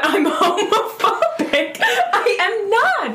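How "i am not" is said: slow, laughing protest; laughing denial. Real, not acted. Accused host protesting through laughter, slow. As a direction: drag it out between laughs. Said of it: "denying being homophobic".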